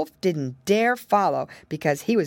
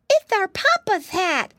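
high, loud burst of recognition; sudden cry; 12 semitones higher, 5 dB louder than usual. Acted. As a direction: blurt it out in shock. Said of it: "suddenly cried Flop".

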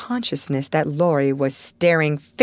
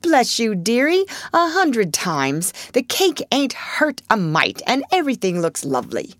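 put-on old servant sobbing and chuckling; 6 semitones higher than usual. A narrator's reading. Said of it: "crying with a sob and a chuckle".

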